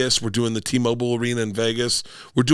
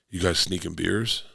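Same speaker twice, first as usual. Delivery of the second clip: low, softer, confidential imitation; retold sly question; 4 semitones lower, 5 dB quieter than usual. Shane Gillis coaxing the girls to confess, quietly sly. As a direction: ask it low, as if in on the secret. Comic slyly questions kids in story.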